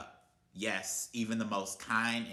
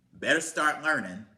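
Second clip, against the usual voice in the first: loud, higher shouted warning; angry warning; 6 semitones higher, 10 dB louder than usual. Real, not acted. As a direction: bark the warning at them. Repeated warning at rant peak.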